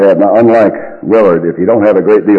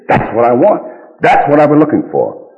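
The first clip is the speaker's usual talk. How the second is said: higher-pitched, pleased exclamation; delighted customer; 7 semitones higher than usual. Retold or imitated. Woman to pet shop man on seeing the bird work, delighted. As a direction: voice the customer's eager relief.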